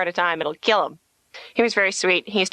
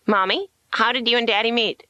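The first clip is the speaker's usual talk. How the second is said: put-on little child; 4 semitones higher than usual. Playing a child asking mother.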